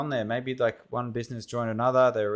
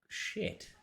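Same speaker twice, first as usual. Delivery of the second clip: whispered curse; 11 dB quieter than usual. Real, not acted. Muttered reaction to bad page.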